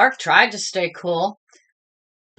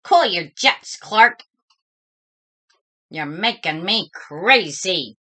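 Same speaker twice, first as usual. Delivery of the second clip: a hint of an exasperated friend; lightly voiced friend; 5 dB louder than usual. A narrator's reading. Joey telling Clark to calm down, mildly exasperated. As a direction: friend losing patience, loud at first.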